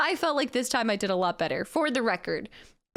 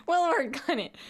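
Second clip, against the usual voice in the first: higher-pitched, just after a laugh; amused repeat; 5 semitones higher than usual. Real, not acted. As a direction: say it lifted with amusement.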